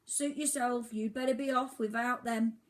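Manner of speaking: high, loud lecturing bird voice; scolding old albatross. Acted. Albatross lecturing Oliver, high scolding voice. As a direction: lecture the ignorant youngster.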